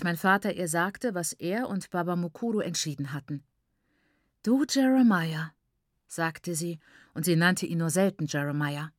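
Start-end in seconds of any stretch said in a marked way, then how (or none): 4.4-5.5 higher-pitched, lightly acted indignation; a touch of outrage; reproachful address. A narrator's reading. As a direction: confront him by name as an upset wife. Upset mother confronts her husband.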